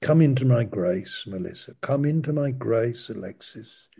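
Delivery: gentle repeated call by name; God calling each listener into grace. Retold or imitated. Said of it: "He's saying".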